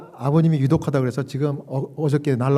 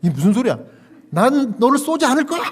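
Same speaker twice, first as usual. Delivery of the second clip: laughing disbelief; 8 semitones higher, 5 dB louder than usual. Real, not acted. Panicked reaction to gun remark.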